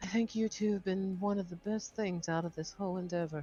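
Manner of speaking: soft, close half-whisper spoken aside. Narrator voicing a character leaning toward two companions, half-whispering. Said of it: "and she whispers".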